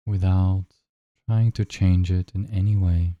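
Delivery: unhurried guide with long silences between phrases; measured meditation voice, leaving room to breathe; guided meditation. Acted. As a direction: lead them gently into noticing the breath.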